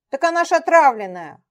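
high loud tearful cry; near tears. Acted. Петя pleads with Дмитрий, near tears. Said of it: "послышались слёзы".

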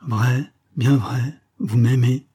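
drawn-out lovestruck disbelief; sighing. A narrator's reading. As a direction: ask it slowly, with a lift in the voice. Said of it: "soupira-t-elle".

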